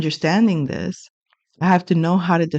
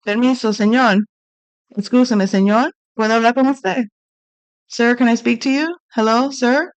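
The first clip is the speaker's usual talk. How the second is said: polite Spanish; 3 semitones higher than usual. Retold or imitated. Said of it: "So I talked to him in Spanish".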